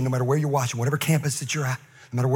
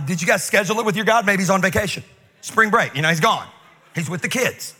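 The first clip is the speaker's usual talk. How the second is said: mock-helpful teasing, a little higher; taunting; 3 semitones higher than usual. Elijah to the prophets about their missing god, taunting. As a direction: needle them with pretend concern. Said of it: "He taunts them".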